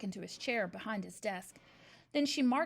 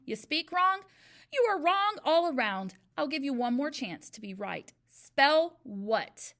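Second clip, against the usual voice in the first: loud, higher, mounting scorn; contemptuous tirade; 4 semitones higher, 7 dB louder than usual. A narrator's reading. Trunchbull berates Eric, her scorn building loudly. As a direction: pile insult on insult.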